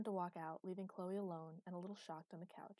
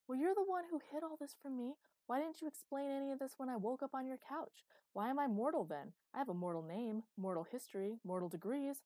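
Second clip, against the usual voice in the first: loud, high, indignant barrage; angry confrontation; 6 semitones higher, 7 dB louder than usual. A narrator's reading. Chloe demanding to know why all this was hidden, angry. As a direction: fire off furious questions, hammering the repeats.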